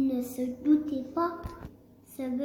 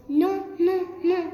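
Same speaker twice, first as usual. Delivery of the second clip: higher, louder chanted no; little pigs' refusal; 4 semitones higher, 6 dB louder than usual. A narrator's reading. Pigs shouting no through the door, high and loud. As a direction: squeal the refusal gleefully. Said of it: "répondirent les petits saucissons".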